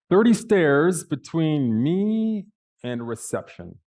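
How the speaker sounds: loud, high, drawn-out dismay; dismayed disbelief. Retold or imitated. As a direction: stretch it slowly in sheer disbelief. Dismayed at sight of stairs.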